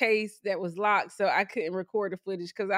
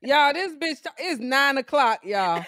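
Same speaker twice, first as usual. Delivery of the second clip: loud teasing; 2 semitones higher, 5 dB louder than usual. Real, not acted. Teasing co-host, loud laughing.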